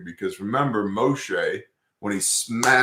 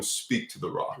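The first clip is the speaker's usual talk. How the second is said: a hushed divine command; whispered instruction; 9 dB quieter than usual. Retold or imitated. God telling Moshe what to do, in a whisper. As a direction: whisper it softly.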